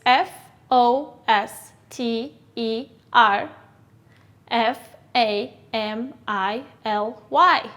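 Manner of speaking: slow letter-by-letter spelling; careful dictation pace. Shown as a demonstration. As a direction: spell each letter apart. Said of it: "How do you spell it?".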